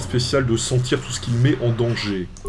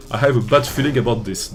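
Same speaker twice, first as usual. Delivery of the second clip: English line in a thick French accent; self-mockingly proud French-accented English. Shown as a demonstration. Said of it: "accent anglais magnifique".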